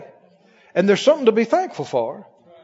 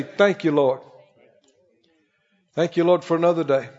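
quiet thanks; 4 semitones lower than usual. Retold or imitated. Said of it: "you just say".

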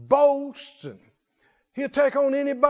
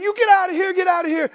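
loud, higher shout to drive it off; yelling at bear; 7 semitones higher, 5 dB louder, faster than usual. Acted. David yells at the bear to drive it from his sheep. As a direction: chase the bear off with a yell.

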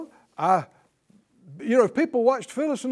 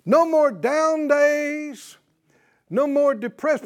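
slow, higher, louder declaring; slow proclamation; 5 semitones higher, 5 dB louder, slower than usual. Real, not acted. Preacher declaring to the congregation, slow loud proclamation. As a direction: stretch each word out triumphantly.

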